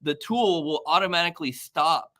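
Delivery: rising pitch, quick, eager rush; excited. Real, not acted. Colleague gushing about automation to live viewers, excited and fast. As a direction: gush about the tool, speeding up. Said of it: "I'm excited".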